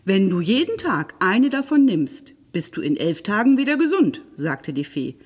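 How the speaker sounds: lively, expressive fairy-tale narration; storyteller for children, varied pitch; story narration. A narrator's reading. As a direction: read a fairy tale aloud with animated emphasis.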